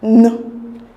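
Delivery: N said as a held "nn" sound; isolated N sound. Shown as a demonstration. Teacher showing how PN, GN and KN sound, isolated N sound. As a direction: sound out N slowly, not its letter name. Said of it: "it is pronounced as".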